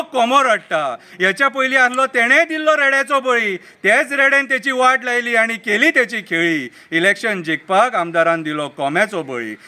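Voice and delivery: measured satirical verse recital; mocking political poem read aloud; poem recitation. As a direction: recite it as rhythmic verse, letting the line endings fall.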